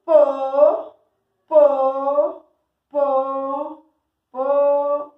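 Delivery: each syllable loud and separate; teacher drilling syllables aloud. Shown as a demonstration. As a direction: sound out each syllable clearly for the class. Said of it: "varias veces".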